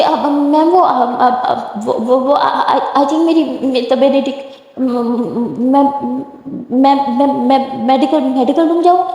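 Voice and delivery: flustered, tripping over every word; nervous stammer. Acted. Simran stammering a fake excuse to the professor, flustered.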